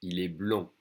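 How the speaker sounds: blond ending on the nasal vowel; silent D. Shown as a demonstration. Teacher modelling the form for a boy, silent D. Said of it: "no D".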